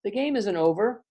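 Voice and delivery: rally the team, don't let them quit; urgent pleading. Acted. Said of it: "So she says".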